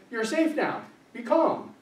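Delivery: soothing voice. Retold or imitated. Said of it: "has come in and said".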